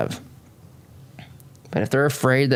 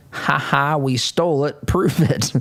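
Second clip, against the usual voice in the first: mock gloating laugh; 2 semitones higher than usual. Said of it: "laughed, and said".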